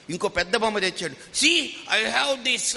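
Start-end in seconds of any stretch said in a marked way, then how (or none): 1.1-2.8 put-on a little boy showing off his biggest toy, "See" pitched much higher; pushier, higher kid's brag; child pressing his toy on a guest; insistent boasting child. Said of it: "అన్నాడు".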